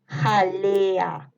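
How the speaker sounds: drawn-out, joined "Jalea"; dictation. Shown as a demonstration. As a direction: stretch the vowels of "Jalea" without a break. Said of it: "les voy a ir dictando". (dictado alargando "Jalea")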